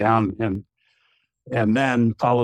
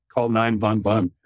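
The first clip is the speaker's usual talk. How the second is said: put-on light German accent. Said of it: "and with a German accent".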